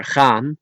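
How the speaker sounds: gaan with the final N sounded; N kept. Shown as a demonstration. Teacher warning learners, gaan keeping its N. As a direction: say gaan in Dutch, ending in N. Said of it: "you could not leave out".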